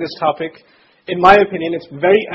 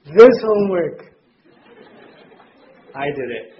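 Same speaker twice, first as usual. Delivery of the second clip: put-on proud child; 3 semitones lower than usual. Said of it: "And he says".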